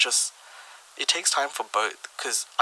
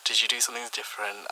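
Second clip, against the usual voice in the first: subtle, softer seductive tone; sexy voice; 5 dB quieter than usual. Shown as a demonstration. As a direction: sweet-talk them, lightly and softly. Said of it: "notice the change in your voice tone".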